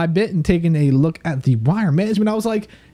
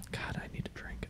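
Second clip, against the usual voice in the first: a breathless whispered aside; 23 dB quieter than usual. Real, not acted. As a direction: drop to a whisper as if only to yourself. Aside after reading submission.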